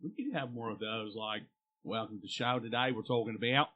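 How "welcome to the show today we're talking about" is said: mock Australian. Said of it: "why are we doing Australian".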